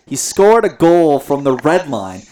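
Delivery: commentator excitement. Retold or imitated. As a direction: call it like a stunned broadcaster. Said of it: "hear the excitement in his voice".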